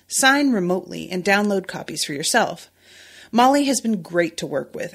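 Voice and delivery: easy, friendly sponsor read; podcast host reading a sponsor spot. Acted. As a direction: pitch the accountant like a trusted tip.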